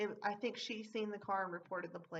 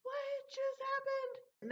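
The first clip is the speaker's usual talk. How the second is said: much higher and very slow, drawn-out disbelief; stunned disbelief; much slower than usual. Retold or imitated. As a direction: stretch each word out, dumbfounded. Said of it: "and I'm like".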